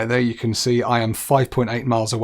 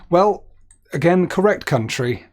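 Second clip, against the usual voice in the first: pleased exclamation; 7 semitones higher, 7 dB louder than usual. Real, not acted. Pleased at result.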